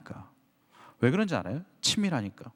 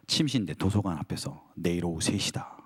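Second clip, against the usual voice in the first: 아주 낮고 엄숙한 하나님 음성; 멀리서 울리듯 낮게 선언; low divine voice; 10 semitones lower than usual. Retold or imitated. God's answer, low. (낮고 엄숙하게 선언하는 하나님 목소리)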